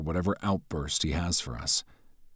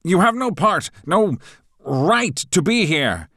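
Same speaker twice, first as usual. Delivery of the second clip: high, loud fussy professor voice; pompous professor taking charge; stern professor; 9 dB louder than usual. A narrator's reading. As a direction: announce it like a pompous teacher.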